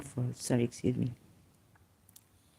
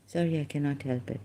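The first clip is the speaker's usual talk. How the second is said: usual speaking voice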